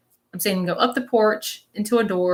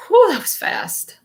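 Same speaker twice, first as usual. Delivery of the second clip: high, drawn-out "whew" of relief; retold relieved exclamation; 12 semitones higher, 5 dB louder, slower than usual. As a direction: blow out a big, slow whew, acting out someone else. Acts out spirit's breathless relief.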